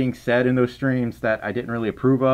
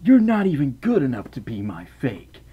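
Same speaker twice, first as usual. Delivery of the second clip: Shadow line. Retold or imitated. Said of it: "He said something like that".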